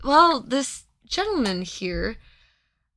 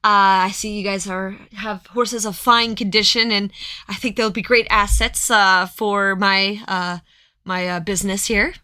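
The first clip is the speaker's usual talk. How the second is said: louder, slick trader pitch; smooth talk a horse deal; merchant; 4 dB louder than usual. Acted. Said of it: "And he's like".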